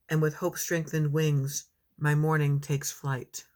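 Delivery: measured poetry recital with pauses; poem reading. Acted. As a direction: read it as a poem, phrase by phrase. Reads second poem.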